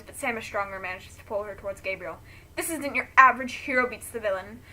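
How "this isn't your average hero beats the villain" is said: loud, bitter villain rant; shouting. Acted. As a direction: hurl each word louder. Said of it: "Maxler shouts".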